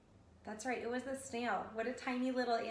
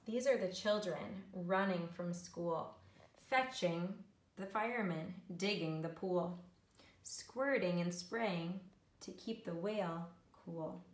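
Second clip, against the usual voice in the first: measured, rhythmic picture-book reading; story narration. A narrator's reading. Teacher reads snail story to learners, storytelling. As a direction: read the rhyme to young children, savouring it.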